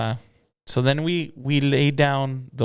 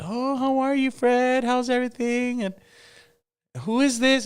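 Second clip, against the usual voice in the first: much higher, bright lady voice for the boss; Boss Lady's voice; 12 semitones higher than usual. Retold or imitated. Boss Lady greeting Fred and the new singer, in a much higher lady voice. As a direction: play the gracious lady boss greeting the room.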